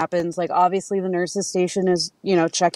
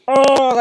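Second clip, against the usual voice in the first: loud, higher mock cry of "oh"; retold "oh" outburst; 6 semitones higher, 7 dB louder than usual. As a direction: burst out "oh" as if recalling the panic. Mimics own reaction to leaving him.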